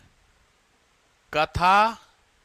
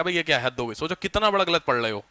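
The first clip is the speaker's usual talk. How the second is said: mock dismay; 3 semitones lower than usual. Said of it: "उसमें यही मेरे को सिखाया".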